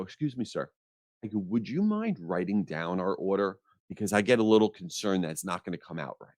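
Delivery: mock-gentle polite plea to the waiter; extra polite. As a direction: ask as nicely as humanly possible. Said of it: "as nice as humanly possible".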